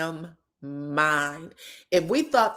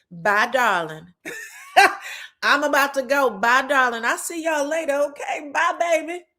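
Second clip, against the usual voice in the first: mock sweet goodbye; 6 semitones higher than usual. Heavenly's mocking exit farewell.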